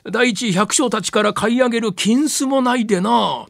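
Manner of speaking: usual speaking voice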